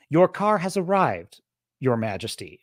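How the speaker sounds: bow to her like a playful servant; playful mock courtesy. Kind father coaxes the shy girl out of the car, playfully formal. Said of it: "he kinda takes a different approach".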